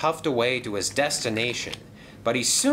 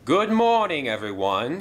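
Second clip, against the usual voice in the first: louder, higher morning hello; hearty greeting; 5 semitones higher, 4 dB louder than usual. Acted. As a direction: call it out loud, high, then drop. Controller greets the engines.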